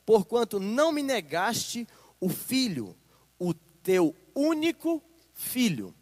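slow, solemn Bible reading to the congregation; deliberate pulpit reading; scripture reading. Acted. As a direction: read the passage with weight, word by word. Reading the angel's words.

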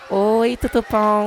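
drawn-out, sing-song hello; excited slow greeting. Acted. The blogueirinha greets Lucy on the phone, drawn out and excited. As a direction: stretch the greeting out like an overjoyed fan.

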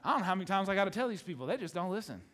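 fast, fed-up grumble; tossed-off eye-roll complaint; exasperated Jesus. Retold or imitated. Jesus complaining about people who never listen, fast and fed up. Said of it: "Jesus rolled his eyes ... like".

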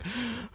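soft, high mock sigh; imitated exasperated sigh; put-upon sigh. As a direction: sigh wearily, imitating reluctance. Acting put-upon Shinigami sighing.

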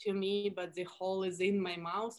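slow Russian accent, TH pushed into Z; exaggerated Russian accent. Shown as a demonstration. Toothless character answers at the bar, exaggerated Russian accent. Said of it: "I was exaggerating the T H sounds".

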